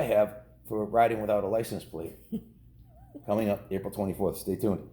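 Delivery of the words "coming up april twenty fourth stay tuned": ordinary delivery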